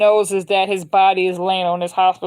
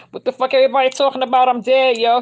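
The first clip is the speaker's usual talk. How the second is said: higher, fast, frustrated yelling at the room; a pitched-up exasperated rant; angry outburst; 5 semitones higher, faster than usual. Retold or imitated. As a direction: blurt it out fast, fed up that nobody sees him. Man angry he's treated as dead.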